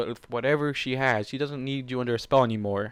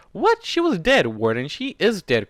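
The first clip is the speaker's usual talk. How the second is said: high, loud shocked protest; rising pitch; 6 semitones higher, 5 dB louder than usual. Acted. Kuno protesting to Warden, high and shocked. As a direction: pitch shoots up in disbelief. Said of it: "her tone rising in octaves".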